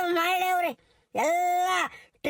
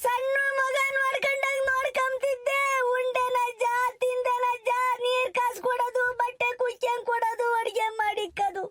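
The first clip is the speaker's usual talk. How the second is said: tearful lament; 2 semitones higher than usual. Acted. Wife wails over poisoned husband.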